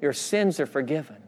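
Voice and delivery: softened voice of forgiveness; tender reassurance. Acted. Preacher voicing Jesus looking at the man, soft reassurance. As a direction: ease off and say it softly.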